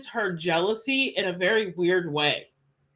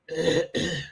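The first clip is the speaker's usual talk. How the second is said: chesty cough; 3 semitones lower, 4 dB quieter than usual. Real, not acted. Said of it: "sorry I'm coughing through it".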